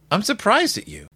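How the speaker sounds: lightly voiced scolding little boy; brother. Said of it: "And brother's like".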